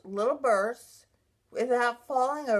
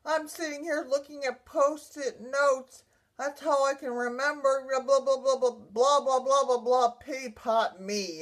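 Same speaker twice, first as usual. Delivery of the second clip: worked-up retelling of an angry rant; retold upset anger; 3 semitones higher than usual. Survivor pleading her case to the agency, retold angry upset. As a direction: re-enact venting that tumbles into blahs. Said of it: "I was angry".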